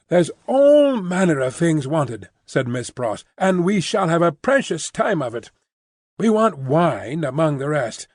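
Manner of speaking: a hint of a bustling English maid; Miss Pross voice.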